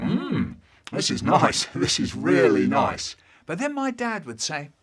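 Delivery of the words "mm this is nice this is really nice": laughing approval. Retold or imitated. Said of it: "we'd sit round saying".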